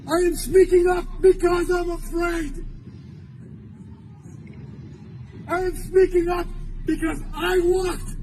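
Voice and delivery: forceful, emphatic public address; urgent protest oratory; impassioned rally speech. Real, not acted. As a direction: hammer out each phrase to the crowd, with long pauses.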